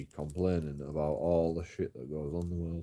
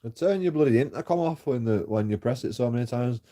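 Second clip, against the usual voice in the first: higher, louder furious yell through the door; angry retort; 6 semitones higher, 5 dB louder than usual. Retold or imitated. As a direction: shout back in frustration. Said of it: "And I'm like".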